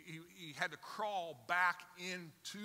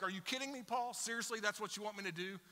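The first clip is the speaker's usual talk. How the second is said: incredulous, raised and louder complaint to Paul; exasperated objection; 5 semitones higher, 5 dB louder than usual. Retold or imitated. Anxious listener protesting to Paul, exasperated. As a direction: push back at Paul in disbelief. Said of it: "you gotta be like".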